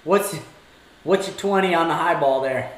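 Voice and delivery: slow, drawn-out radio call with gasps; mock CB trucker call. Teasing friend about CB radios, plays a slow trucker radio call. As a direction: hail the other driver like a CB trucker.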